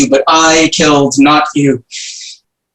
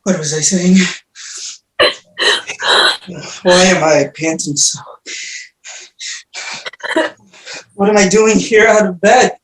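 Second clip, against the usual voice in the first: hushed, dazed, fading murmur; dazed and quiet; 4 semitones lower, 5 dB quieter than usual. Acted. Orestes waking from madness, exhausted.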